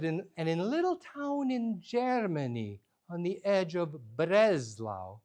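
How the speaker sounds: put-on slow, sing-song storytelling of an old grandmother; lightly voiced grandma, slow and lilting; lyrical grandma. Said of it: "she needed lyrics".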